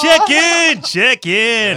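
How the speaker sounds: high shouted announcement; shouted call. Acted. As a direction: call out the segment name loud. Calling out a segment name.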